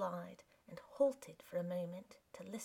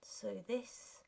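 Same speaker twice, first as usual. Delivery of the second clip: choked; 4 dB quieter, much slower than usual. Acted. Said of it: "he choked upon the words".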